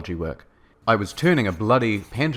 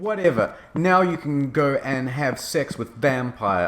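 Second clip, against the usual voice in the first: mock shout; 5 semitones higher than usual. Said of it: "I shouted".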